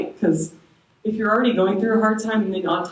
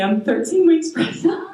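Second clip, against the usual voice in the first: joyful reveal, pitch jumping much higher; excited announcement; 10 semitones higher, 3 dB louder than usual. Real, not acted. Telling the church she is pregnant again, overjoyed. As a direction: burst out with the good news, beaming.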